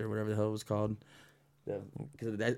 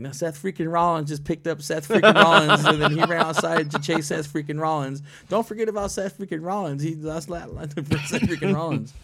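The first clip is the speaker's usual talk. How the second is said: loud, high, overhyped commentator parody; mocking commentator; 7 semitones higher, 8 dB louder than usual. Mocking the announcers' name repeats, loud hype voice. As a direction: ham up the announcer's catchphrase.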